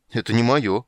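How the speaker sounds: baffled at the strange trousers; surprised protest. Acted. Poet surprised, holding up trousers not his own. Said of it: "удивился Лютик".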